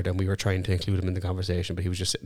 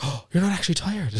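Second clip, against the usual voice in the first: much higher, teasing sing-song; teasing Larkin for faking tiredness, high and mocking; mock accusing; 9 semitones higher than usual. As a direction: catch him out with a gleeful jab. Teasing realisation quoted.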